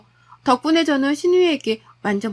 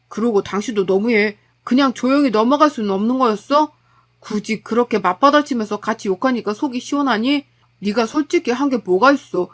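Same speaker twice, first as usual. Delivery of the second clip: husband scolding his wife after the fight, reproachful; blaming husband; 2 semitones lower than usual. Acted. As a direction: turn the blame on your wife, cold.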